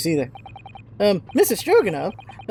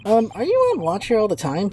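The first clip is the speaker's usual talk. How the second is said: ordinary delivery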